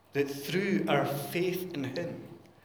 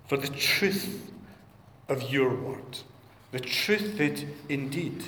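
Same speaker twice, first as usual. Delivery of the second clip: prayer. Acted. Leads congregation in prayer.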